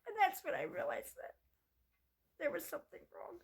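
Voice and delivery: high, tearful voice. Real, not acted. Telling viewers she realized something was wrong, tearful. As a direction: still fighting back tears. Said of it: "still tearful".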